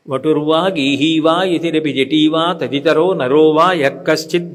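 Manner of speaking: solemn chant of a sacred verse; verse recitation. Acted. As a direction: intone the shloka with devotion. Recites Sanskrit shloka.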